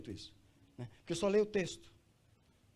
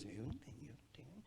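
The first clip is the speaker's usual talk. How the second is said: very soft imitated murmur, fading away; timid mock reply; 13 dB quieter, faster than usual. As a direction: shrink back as a reluctant churchgoer. Voices congregants with nothing to say. (resposta tímida imitada, bem baixinho)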